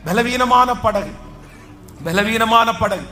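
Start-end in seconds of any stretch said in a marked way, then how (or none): 0.1-1.1 P=B; slow stressed phrase. Shown as a demonstration. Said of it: "repeated phrase".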